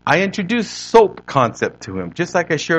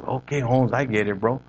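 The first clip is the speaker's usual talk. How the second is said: a hint of East L.A. homeboy; East L.A. accent; 2 semitones lower, 4 dB quieter than usual. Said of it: "with his East L A accent".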